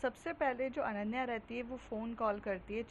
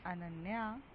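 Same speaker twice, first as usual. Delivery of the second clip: lovingly; 3 semitones lower, 4 dB quieter, slower than usual. Acted. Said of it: "बहुत प्यार से बोलती".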